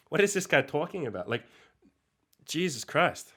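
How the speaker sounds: can't believe what was just read; incredulous. Real, not acted. Reacting to an absurd claim about baldness, incredulous.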